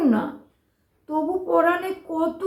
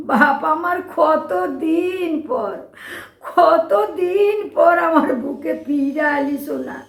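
crying. Acted. Old woman weeping as she takes in her lost son. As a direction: hold him close and weep with relief. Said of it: "কেঁদো না মাসি".

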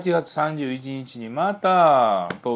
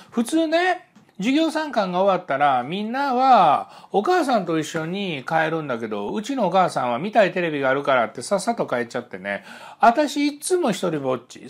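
higher, lightly voiced woman recalling childhood; voicing the client; 6 semitones higher than usual. Counselor quotes his client's lonely childhood, higher lightly voiced woman. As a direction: tell it as she told it, a little higher.

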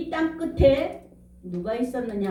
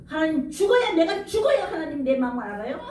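rising, pleading cry toward God, partly acted; reenacting his despairing challenge to God; retold desperate plea; 4 semitones higher than usual. Preacher reenacting his desperate cry to God, mock anguish. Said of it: "하나님 앞에 이랬어요".

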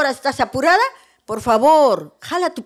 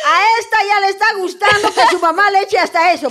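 laughing mother mocking her daughter, higher; mother laughing at her grown daughter; laughing tease; 6 semitones higher than usual. Real, not acted.

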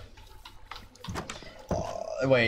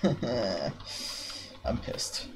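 voiceless, low frustrated whisper; 4 semitones lower, 8 dB quieter than usual. Real, not acted. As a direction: hiss it under your breath. Frustrated gamer mutters after sigh.

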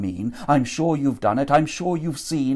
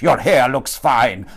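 scoffing; 6 dB louder than usual. Acted. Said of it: "Marcellus scoffed".

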